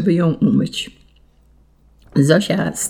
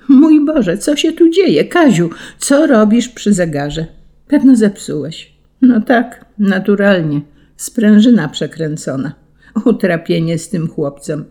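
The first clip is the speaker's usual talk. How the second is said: scolding mother; 3 semitones higher than usual. Acted. Mother catching her son at the broken clock, alarmed scolding. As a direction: play the startled, scolding mother.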